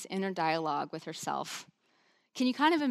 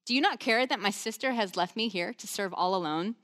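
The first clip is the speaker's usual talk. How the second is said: barging complaint; 2 semitones higher than usual. Retold or imitated. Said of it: "She just barges in and says".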